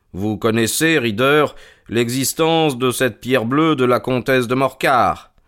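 lightly voiced, self-assured investigator; measured detective's statement; composed detective Holmes. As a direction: lay out the case with calm authority.

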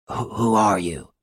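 slow, stammering mild gasp; understated frightened stammer, slow. A narrator's reading. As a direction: falter out the question, shaken. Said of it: "he gasped".

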